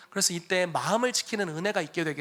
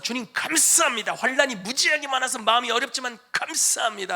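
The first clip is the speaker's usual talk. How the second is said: higher, louder mock prayer of thanks; hammed-up grateful prayer; 7 semitones higher, 6 dB louder than usual. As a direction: thank the Lord in a lightly exaggerated prayer voice. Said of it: "하면서".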